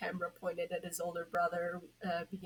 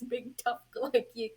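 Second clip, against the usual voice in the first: higher, louder mocking spirit voice; teasing spirit; 4 semitones higher, 6 dB louder than usual. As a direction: rub the joke in. Being keeps teasing Red Hood.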